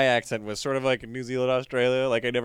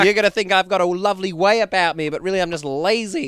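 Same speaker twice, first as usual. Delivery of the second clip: mock backpacker; 6 semitones higher, 5 dB louder than usual. Joining backpacker bit.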